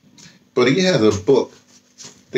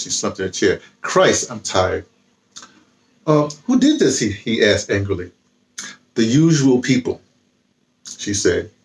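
reading a novel aloud. A narrator's reading.

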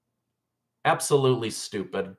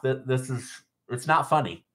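stifling a laugh, barely holding it together; holding back laughter; 4 dB quieter than usual. Real, not acted. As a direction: try not to laugh while speaking. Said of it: "sorry, I'm trying not to laugh".

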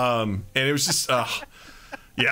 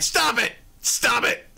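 laughing protest; 6 semitones higher, slower than usual. Retold or imitated. Caught slacking, laughing denial.

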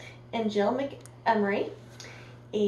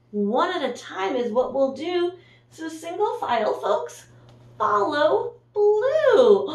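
mayor's speech; 4 semitones higher than usual. Acted. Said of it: "gave a speech, the way mayors do".

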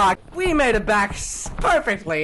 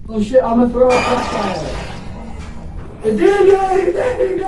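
panicked shout; 3 semitones higher, 8 dB louder than usual. Real, not acted. Flashlight failed.

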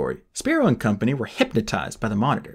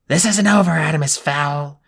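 roaring; 3 semitones higher, 3 dB louder than usual. Acted. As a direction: bellow threats upward. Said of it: "Spiro roared at the ceiling".

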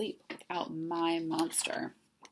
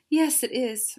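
higher, louder silky monster voice; 6 semitones higher, 8 dB louder than usual. A narrator's reading. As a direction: answer high, silky and projected. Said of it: "he said in a high, silky voice".

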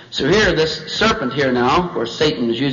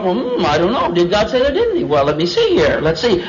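woman thinking; 4 semitones higher than usual. Acted. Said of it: "And so the woman thought".

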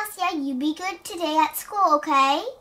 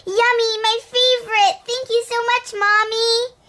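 put-on delighted child; 5 semitones higher than usual. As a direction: savor each treat.

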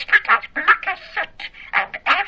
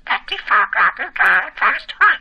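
budgie talking in Geordie; squawky little bird with a Geordie accent; 3 semitones lower than usual. Real, not acted. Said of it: "You're a Geordie".

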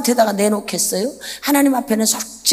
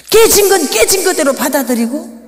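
building shout; 7 semitones higher, 8 dB louder than usual. Acted. Preacher voicing God's command.

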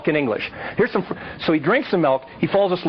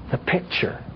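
whispered; 5 semitones lower, 6 dB quieter than usual. Shown as a demonstration. Repeating the phrase, dropping to whisper.

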